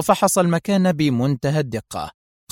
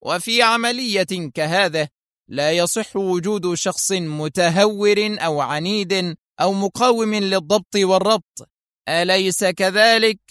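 even sterner; 6 semitones higher than usual. Acted. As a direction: spell each word out as a warning. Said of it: "في صرامة أكثر".

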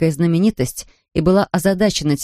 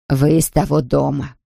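put-on a wary old woman weighing her words; old shopkeeper; 2 semitones lower than usual. A narrator's reading. Shopkeeper answers the stranger girl, slow and wary.

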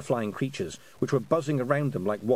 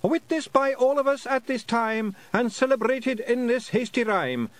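groaning lament recital; 13 semitones higher, 4 dB louder than usual. Acted. A pixie poet reciting awful verse at the fairies, high groaning declamation. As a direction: declaim terrible verse like a tragic bard. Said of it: "shouted after them".

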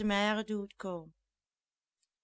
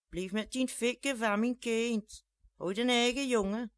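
scolding; 3 semitones higher, 3 dB louder than usual. Acted. Mother scolds man hitting child.

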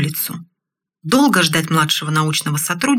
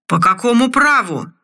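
put-on drunken yell; 3 semitones higher than usual. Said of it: "заорал заплетающимся языком командор".

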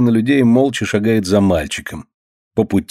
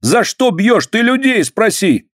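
high protest; 12 semitones higher than usual. A narrator's reading. Boy protests blow.

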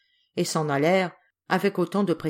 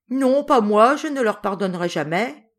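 defiant refusal; 4 semitones higher, 5 dB louder than usual. Acted. Paul refuses forgiveness.

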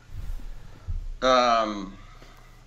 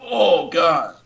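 mock moan; 7 semitones higher, 3 dB louder than usual. Shown as a demonstration. Demonstrating again.

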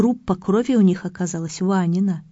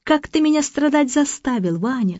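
higher, hammed-up martyr's complaint; mock suffering wail; 5 semitones higher than usual. Mother in labour scolds her husband, mock anguish. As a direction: moan about her suffering for him. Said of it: "кричит Ваня".

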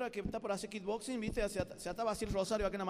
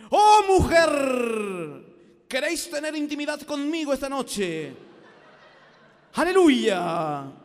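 loud, slow, pompous biblical proposal; mock archaic formality; 5 semitones higher, 14 dB louder, much slower than usual. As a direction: ham it up like a stage preacher. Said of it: "imaginese llegar a su casa y decirle".

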